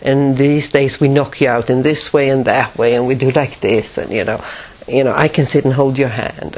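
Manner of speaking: gentle, simple reassurance, lightly imitated; talking to a child. Anesthesiologist explaining to frightened patient, talking as to a child. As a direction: soothe as if to a small child. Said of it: "talk to me as if I was about five and a half".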